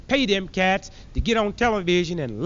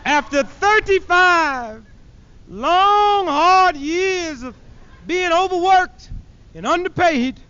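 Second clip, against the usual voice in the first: higher, louder, near-sobbing lament; hammed-up crying over the hard years; mock weeping professor; 7 semitones higher, 4 dB louder, slower than usual. Professor on TV, hammed-up tearful wail. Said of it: "going something like this".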